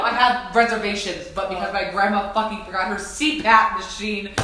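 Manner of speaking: rising outrage at grandma; upset. Retold or imitated. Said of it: "So I was really upset".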